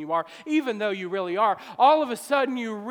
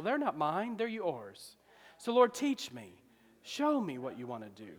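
humble prayer; 5 dB quieter than usual. Acted. Preacher voices his own humble prayer.

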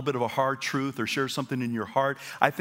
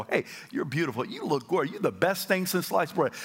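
encouraging compliments; 5 semitones higher than usual. Shown as a demonstration. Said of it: "The more you practice it".

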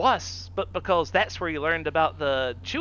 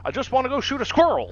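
hick voice; 8 semitones higher, 3 dB louder, faster than usual. Acted. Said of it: "hick grandson acted".

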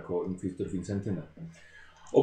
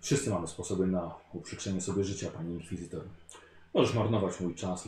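calm menacing tone; 3 semitones lower than usual. Acted. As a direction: speak calmly, as if nothing could rattle you. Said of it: "mówi w spokojnym tonie".

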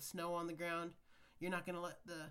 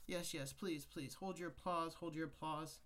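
milking the applause. Acted. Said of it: "all jokes aside".

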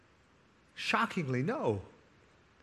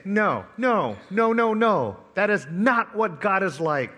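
emphatic denial; 3 semitones higher, 4 dB louder than usual. Real, not acted. Preacher refuting the Pharisees.

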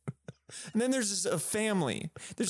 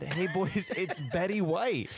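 quoting through laughter; laughing while repeating; 2 semitones higher than usual. Retold or imitated. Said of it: "I think she just said".

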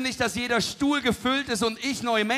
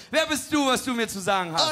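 indignant Peter; 3 semitones higher, 5 dB louder than usual. Retold or imitated. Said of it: "Und Petrus sagte".

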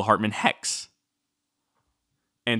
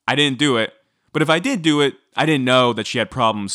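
higher, louder mock protest; retold defensive denial; 3 semitones higher, 4 dB louder than usual. Podcaster retelling Andy Dick's excuse, defensive mock denial. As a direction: quote him protesting his innocence, pitched up.

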